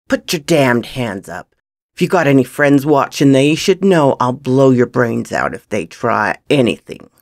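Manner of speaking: forceful gunpoint warning; gruff threat. Acted. Gunman ordering a camp thief to surrender, threatening. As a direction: threaten the intruder, hard and steady.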